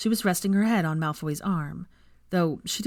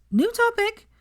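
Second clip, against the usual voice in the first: loud; 5 dB louder, slower than usual. A narrator's reading. Cutting him off loudly.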